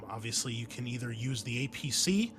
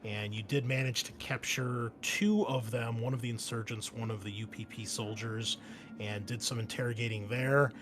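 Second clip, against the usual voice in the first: game master scene setting. Acted. Game master briefing the marine squad on their mission, measured narration. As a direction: lay out the mission briefing deliberately.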